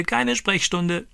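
high parrot squawk, drawn out slowly; slow parrot crow. Retold or imitated. Stani repeats the parrot's phrase, slow high squawk. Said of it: "kräht er".

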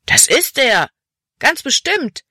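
put-on high, excited boy's shout; loud, high-pitched call to the others. A narrator's reading. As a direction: cry it out with certainty. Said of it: "rief ein anderer Junge".

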